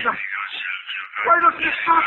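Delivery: low tormented moan. Acted.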